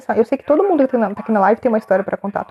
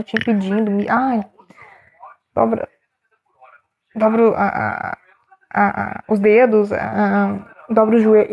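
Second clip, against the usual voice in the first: usual speaking voice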